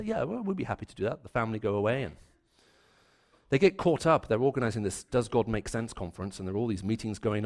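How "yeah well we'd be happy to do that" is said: brisk, obliging neighbourly answer; polite spoken reply. Retold or imitated. Couple politely answering the neighbours, brisk and obliging. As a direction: sound helpful to the neighbours. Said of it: "And they say".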